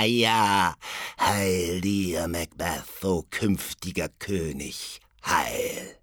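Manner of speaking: a hint of a hag foretelling; lightly voiced witch. Third witch foretelling Macbeth's crown, lightly eerie.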